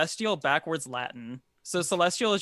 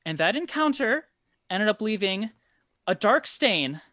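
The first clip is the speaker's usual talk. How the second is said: nervous noblewoman explaining; 7 semitones higher, 3 dB louder than usual. Acted. NPC speaking long in-character.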